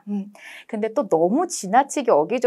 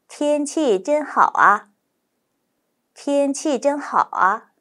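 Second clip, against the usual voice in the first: native speed; 5 semitones higher, much slower than usual. Shown as a demonstration. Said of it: "원어민 발음 속도로".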